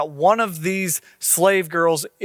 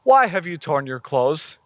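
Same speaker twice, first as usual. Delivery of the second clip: understated, unruffled question; lightly acted calm puzzlement; fairly calm. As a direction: ask it evenly, as an untroubled prophet. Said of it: "picture Elijah being fairly calm with this, being like".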